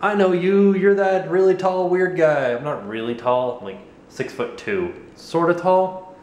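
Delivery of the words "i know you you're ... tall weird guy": raised, eager mock-fan voice; imitating an excited fan; acted fan greeting. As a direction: hail a recognized face, pitched up.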